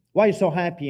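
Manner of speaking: husband asking his cheerful wife why she's happy; incredulous question. Retold or imitated. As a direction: ask it half outraged. Retold suspicious question.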